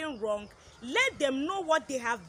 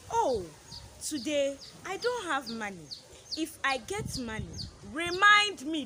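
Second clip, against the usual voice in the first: put-on 1 parent explaining to child. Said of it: "tell him or her".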